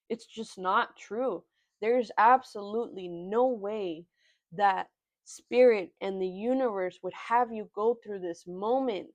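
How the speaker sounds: holding back real emotion as she speaks; getting emotional. Real, not acted. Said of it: "Sorry, I'm getting emotional".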